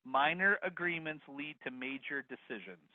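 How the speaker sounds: slow, deliberate dictation; slow repeat. Shown as a demonstration. Host repeating the last bit for attendees, slow and deliberate. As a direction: spell it out slowly for note-takers. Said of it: "Please repeat the last bit".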